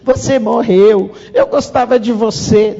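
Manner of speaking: lightly imitated daughter crying at a wake; mock crying. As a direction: stretch it out like a child crying at a funeral. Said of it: "ela chorou em todos".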